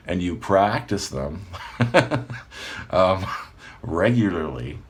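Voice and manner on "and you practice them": slower take of "And you practice them"; deliberately slowed. Shown as a demonstration. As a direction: catch yourself and say "And you practice them" slowly. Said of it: "See me speeding up again?".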